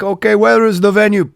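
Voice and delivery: eager put-on soldier asking; a touch of a keen Serbian soldier; quoting a soldier. Soldier asks about gig.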